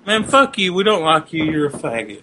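hillbilly yelling. Acted. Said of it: "I'm cupping my hands and yelling at them".

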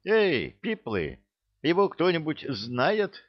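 put-on lightly drunk, drawling call; a touch of boozy slurring; drunken voice. A narrator's reading. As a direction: ask the crowd as if tipsy, pitch sliding up. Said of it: "вопросил он пьяным голосом".

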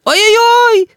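very high, piercing wail; boy howls as mother grabs him. A narrator's reading. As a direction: howl in a voice not your own. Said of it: "завопил не своим голосом Рис".

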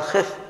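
"خف" with a short i, khif; "خف" mispronounced khif, i instead of a; wrong vowel. Retold or imitated. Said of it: "غير صحيح".

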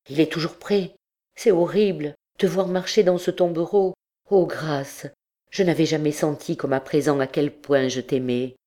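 lightly voiced priest begging her to flee; anguished, urgent entreaty, mildly played; desperate priest, urging. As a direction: implore with understated desperation.

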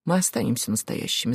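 low, soft assurance; quiet conviction. A narrator's reading. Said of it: "сказал он убеждённо". (тихо и убеждённо)

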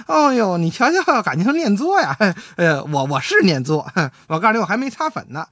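preen as if flattered; delighted wife. Retold or imitated. Wife thinks she was called pretty, giggling and pleased. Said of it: "这王文林他媳妇儿高兴了啊".

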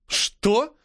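shocked teacher; taken aback. A narrator's reading. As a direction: caught completely off guard. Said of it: "опешила она".

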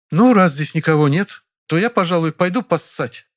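a loud, pointed announcement to the room; loud and expressive. Acted. Actress loudly announcing she is leaving the hall, loud and expressive. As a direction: say it loud so everyone hears. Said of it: "громко и выразительно заявила она".

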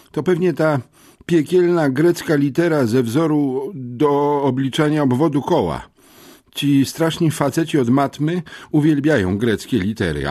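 a dim, excitable muscleman ranting. Acted. Kickboxer Bernard rambling about Greek. (wyższy, głośniejszy głos osiłka Bernarda)

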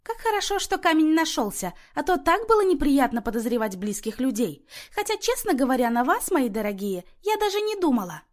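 a high, happy ripple of relief; pleased babble. A narrator's reading. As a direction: melt and babble along, all pleased. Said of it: "довольно прожурчала".

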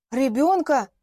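shocked neighbour gasping; gasped question. Acted. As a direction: catch the breath on the word. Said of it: "ахнула женщина".

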